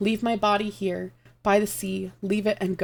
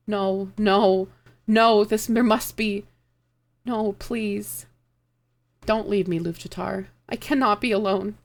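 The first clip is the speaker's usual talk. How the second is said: pleading; 3 semitones higher, slower than usual. Acted. Iyun begging dying lover.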